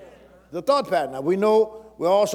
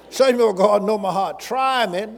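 louder country-preacher outburst; hauling off; 2 semitones higher, 4 dB louder than usual. Acted. Preacher quoting scripture to the congregation, hauling off loudly. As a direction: haul off and proclaim it loudly. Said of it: "like I used to say in the country, haul off and say".

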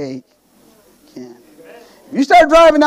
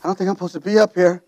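mock nervous prayer; 4 semitones lower than usual. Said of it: "she said".

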